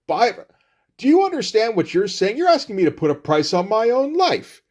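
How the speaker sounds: high-pitched affronted outburst; mock indignation. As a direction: act offended, pitch climbing high. Acted indignation at offer to buy.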